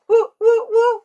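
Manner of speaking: very high, very loud whoops; mock fan whooping in church. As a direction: let the whoops rip.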